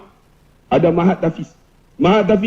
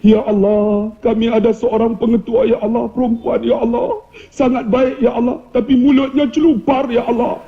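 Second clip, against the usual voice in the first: prayer recitation. Acted. Ustaz prays for the sharp-tongued principal, intoned doa. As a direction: intone it evenly as a comic public prayer. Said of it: "saya baca doa".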